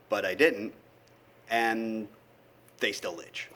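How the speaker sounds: deadpan comic poem in separated phrases; poetry reading. Acted. Poet griping about people who say almost, comic poetry reading. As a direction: recite it with pauses before the punchline.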